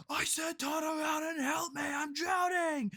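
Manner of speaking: high, loud drowning woman's wail; ghostly lady. Retold or imitated. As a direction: imitate a woman crying out, stretching the end. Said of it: "we hear a lady behind us".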